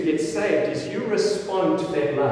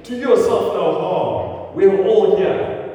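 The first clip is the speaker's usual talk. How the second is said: slow, raised call across the prison; a preacher voicing Paul's loud shout; 2 semitones higher, 4 dB louder than usual. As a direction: call out slowly to stop him. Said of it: "called out to him in a loud voice".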